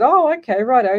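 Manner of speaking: high, loud, half-laughing "oh okay"; a mocking, amused dismissal; amused brush-off. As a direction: wave it off as if trying not to laugh. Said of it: "And I started laughing".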